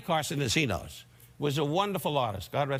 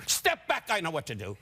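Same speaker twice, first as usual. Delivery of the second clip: bossy mother's command. Retold or imitated. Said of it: "She wasn't quite that loud".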